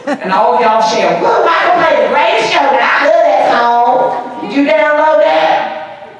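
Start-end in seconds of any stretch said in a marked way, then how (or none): 1.2-6.1 high, loud country whoop. Acted. Showing consultants how they share excitedly, in a country accent. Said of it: "That was my country voice".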